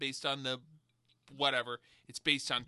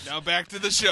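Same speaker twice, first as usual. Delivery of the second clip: announcer voice; 11 dB louder than usual. Pretend. Announcer voice after whisper break.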